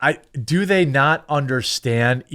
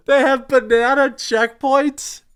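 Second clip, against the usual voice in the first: amazed disbelief; 12 semitones higher, slower than usual. Real, not acted. Reacting to absurd post.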